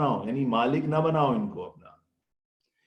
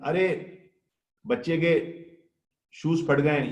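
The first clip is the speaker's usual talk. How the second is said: calling out; 3 semitones higher than usual. Acted. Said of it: "دوسرے master نے آواز دی".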